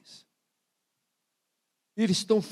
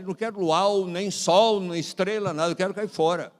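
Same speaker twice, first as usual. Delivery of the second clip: exasperated refusal; 8 dB louder than usual. Retold or imitated. Nervous pastor wants to leave.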